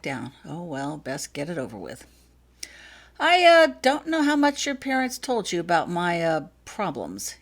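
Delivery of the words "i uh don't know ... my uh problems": halting start, first word high and loud; hesitant. Acted. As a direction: stumble into an awkward confession. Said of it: "he began hesitantly".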